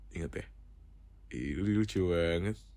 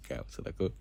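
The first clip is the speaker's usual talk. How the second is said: ordinary delivery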